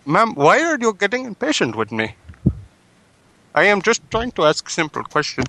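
prank caller in a put-on Indian English accent; polite caller with an Indian accent, a touch pushy. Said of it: "Should I do an accent?".

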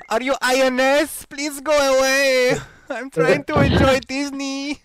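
high, slow mock kid voice; little kid voice. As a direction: play a scared little kid. Mocking the little kid caller.

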